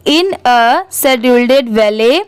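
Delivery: very slow, word-by-word reading; teacher demonstrating slow reading aloud; careful model reading. Shown as a demonstration. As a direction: read it out slowly for learners, pausing between words. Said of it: "जहाँ पर comma या full stop है वहाँ पर रुकिए".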